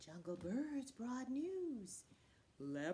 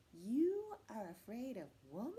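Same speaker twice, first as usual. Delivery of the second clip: puzzled cat; 4 dB louder than usual. Acted. Cat questioning Man's fear of his wife, puzzled. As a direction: ask in mild disbelief. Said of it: "looking a little puzzled".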